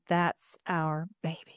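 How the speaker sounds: slow, soft imitation of a moved father; retold tearful awe. Boyfriend seeing the ultrasound, mildly tearful. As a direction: say it softly and slowly, gently voicing his tears. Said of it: "he bursts into tears and he said".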